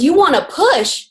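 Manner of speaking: mock disbelief; incredulous husband. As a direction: act mildly appalled by the request. Husband incredulous at drunk stranger.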